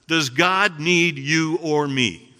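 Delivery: slow, loud question with "need" leaned on; stress on need. Shown as a demonstration. Preacher asking whether God needs us, stressing "need". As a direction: put the weight on the word "need", drawn out. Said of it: "put emphasis on the word need".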